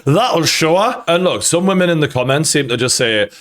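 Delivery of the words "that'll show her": hammed-up spiteful cackle and quip; mock gloating. Mimicking husband supposedly spiting wife over bin bag, mock gloating. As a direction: imitate someone pleased with their petty revenge. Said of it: "on the way out going".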